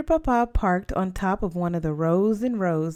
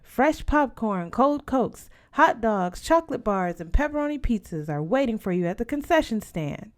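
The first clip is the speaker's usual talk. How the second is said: announcer voice; 4 semitones higher than usual. Acted. Drive-in speaker announcer calling out the snack list. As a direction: sell the snacks like a drive-in loudspeaker. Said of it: "A man's voice burst forth".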